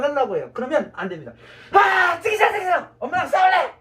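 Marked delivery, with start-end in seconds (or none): 1.7-3.7 high, loud playful protest; yelling a mock tantrum at the crowd; mock whiny refusal. Shown as a demonstration. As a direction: act like a sulky kid refusing. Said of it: "이렇게 얘기하는 거예요".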